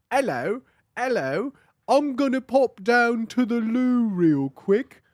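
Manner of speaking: hammed-up bad British accent; fake British accent. Streamer mocking the singer's fakest British accent, hammed-up British. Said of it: "sounds like the fakest British accent".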